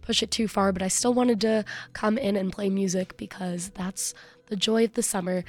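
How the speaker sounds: hoarse, fading voice; strained, half-whispered voice; losing voice. Real, not acted. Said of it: "me losing my voice".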